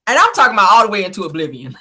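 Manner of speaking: quick words breaking into laughter; laughing. Real, not acted. Host recalls the funniest reunion moment, laughing. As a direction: talk through real laughter. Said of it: "like, dying laughing".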